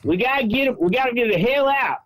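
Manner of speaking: chanting it in that fake Southern voice; fake Southern accent. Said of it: "That fake accent was killing me".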